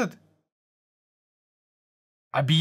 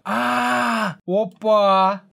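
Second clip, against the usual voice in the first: surprised; 4 semitones higher, 4 dB louder, much slower than usual. Real, not acted. Surprise at a scam site.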